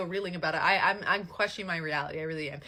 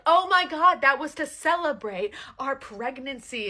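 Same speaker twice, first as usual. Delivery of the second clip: loud, high, stretched-out defence; acting out an indignant comeback; exasperated protest; 5 semitones higher, 8 dB louder, slower than usual. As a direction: protest as if it's obvious, raised and slow. Acted quarrel, woman protests.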